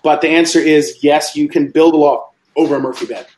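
talking through hiccups; hiccuping between words. Real, not acted. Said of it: "Sorry, I got the hiccups".

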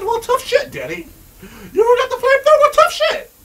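high, loud taunting sneer; mock the player like a bratty bully; snotty mock taunt; mocking zombie voice.

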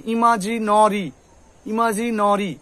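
ইমাজিনরি slowly, with rounded "no-ri"; drawn-out "i-ma-ji-NO-ri" for ইমাজিনরি; nori ending. Shown as a demonstration. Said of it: "এরকম করে".

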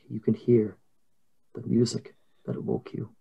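measured, deliberate game master narration; scene narration. A narrator's reading. Game master describing twins dancing in blood, measured narration. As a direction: set an eerie scene with lingering pauses.

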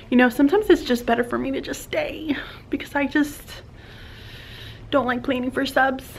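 hushed confiding whisper. Real, not acted. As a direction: drop to a breathy aside. Aside about hating sub planning.

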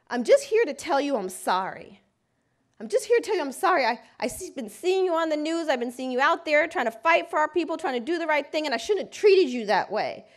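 tearful apology. Retold or imitated. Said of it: "emotional, on the verge of tears".

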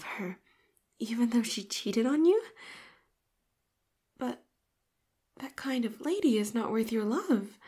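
indignant protest. Acted. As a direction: whisper rising into loud upset objection. Indignant robot defending master.

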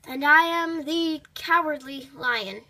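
slow, half-hearted announcement; unenthusiastic. Acted. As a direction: say it with no energy at all. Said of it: "Be more enthusiastic".

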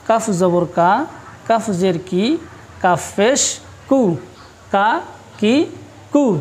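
"কা কি কু" with a light front k, released promptly; quick light kaf. Shown as a demonstration. Teacher drilling kaf for students, quick light pronunciation. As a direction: let the k of "কা কি কু" go quickly and cleanly. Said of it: "এর উচ্চারণটা খুব তাড়াতাড়ি হবে".

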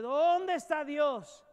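searching question. Retold or imitated. Voicing the doubter's question.

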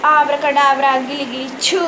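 loud magic chant; kids party magician. Pretend. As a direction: cast the spell with a flourish. Second magic trick incantation. (जादूगर वाला मंत्र)

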